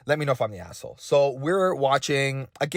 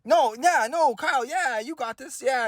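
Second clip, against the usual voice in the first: ashamed dad; 10 semitones higher than usual. Retold or imitated. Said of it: "He, is it, uh".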